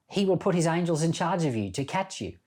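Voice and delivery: a hint of a sly tempter; devil quoting scripture. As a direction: lightly voice the devil twisting the verse. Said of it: "The devil said to Jesus".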